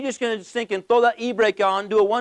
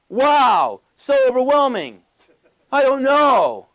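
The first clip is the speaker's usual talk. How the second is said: mock overwhelmed; 2 semitones higher, 5 dB louder, slower than usual.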